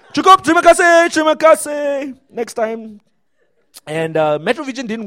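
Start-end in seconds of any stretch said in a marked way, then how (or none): 0.1-3.0 high, loud, laughing "enough, thank you"; mock loud cutoff. Interviewer cutting off a poor Malay news read, loud and laughing. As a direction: shout him down with a laugh.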